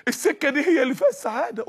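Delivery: mock yell. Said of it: "صوت بيصرخ في وداني تاني".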